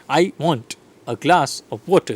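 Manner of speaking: "I", "glass" and "water" set out as beats; deliberate stresses on "glass" and "water"; content words stressed. Shown as a demonstration. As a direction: space it out, leaning on "glass" and "water". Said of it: "content words".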